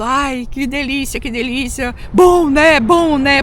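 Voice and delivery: imitating father's heavy accent in Portuguese, livelier at the end; heavily accented Portuguese. Daughter quoting her Japan-food-loving father's delight, heavy accent in Portuguese. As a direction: mimic dad's thickly accented Portuguese. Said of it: "ele falava assim com sotaque carregado português".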